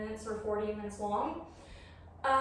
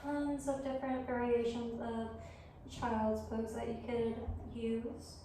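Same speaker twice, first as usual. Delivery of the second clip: yoga guidance; 6 dB quieter than usual. Real, not acted. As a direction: guide them gently through the pose, leaving room to breathe. Leads yoga practice.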